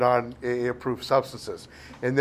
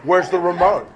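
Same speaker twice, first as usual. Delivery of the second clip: louder, mock-lazy freeloader asking; 4 semitones higher, 8 dB louder than usual. Freeloader at her pad asking for remote, mock lazy. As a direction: play the idle guy settled in her couch. Lazy boyfriend voiced in story.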